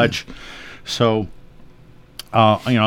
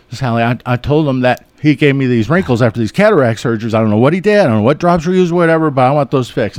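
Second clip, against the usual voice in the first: louder, rising mock-angry complaint; mad patient to sister; 2 semitones higher, 4 dB louder, faster than usual. Patient angrily complains to her sister about the doctor, louder mock anger. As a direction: ham up a cross patient blaming the doctor. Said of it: "I've had some mad patients".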